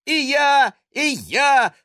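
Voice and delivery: put-on high, loud child's shout; little boy joining in with a yell. A narrator's reading. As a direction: shout it in pure puppy joy. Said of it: "завопил Гровер".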